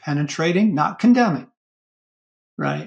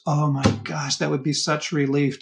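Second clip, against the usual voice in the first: soft, low relieved inner voice; a mild, relieved oh my gosh; relieved sigh; 3 semitones lower, 4 dB quieter than usual. Retold or imitated. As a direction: let out the relief quietly.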